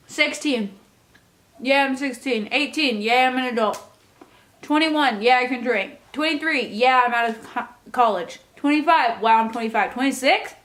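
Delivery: chewing while talking. Real, not acted. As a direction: talk around a mouthful of food. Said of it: "I hope you can't hear me chewing".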